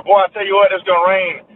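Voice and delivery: Southern accent, emphatic opening; Southern saying demo. Shown as a demonstration. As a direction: demonstrate the Southern catchphrase. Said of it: "you say that before you quote".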